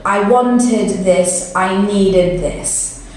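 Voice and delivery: "wanted" and "needed" with -ed said as a clear "id". Shown as a demonstration. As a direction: slowly show the extra "id" syllable in "wanted" and "needed". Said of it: "you pronounce the E D as id".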